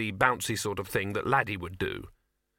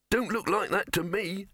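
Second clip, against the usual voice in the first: high-pitched mouse, unconvinced; high little mouse voice; sceptical mouse; 9 semitones higher than usual. A narrator's reading. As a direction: squeak back a doubtful retort. Mouse arguing back.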